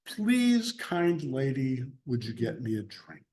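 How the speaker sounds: sweetly courteous asking, rising then softening; overly polite request. Shown as a demonstration. Teacher mocking the polite version of Jesus' request. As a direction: ask nicely, as if bowing to her. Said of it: "but he, he didn't say".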